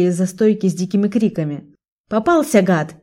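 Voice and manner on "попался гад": yelling. Acted. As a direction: shout it as you catch him. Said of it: "громче всех кричала Лика".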